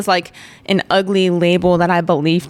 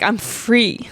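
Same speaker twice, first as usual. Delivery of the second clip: declaring freedom; 2 semitones higher, much slower than usual. Retold or imitated. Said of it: "I'm like".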